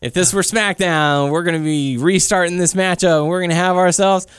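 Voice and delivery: lightly voiced Teddy Long announcing; a hint of Teddy Long calling to the players; playful imitation of a wrestling GM. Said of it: "Teddy Long comes out, says".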